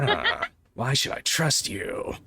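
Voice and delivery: slow soldier voice, breaking into a laugh; Solid Snake voice. Acted. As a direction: do a slow hammed-up covert soldier. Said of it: "give him a solid Snake voice".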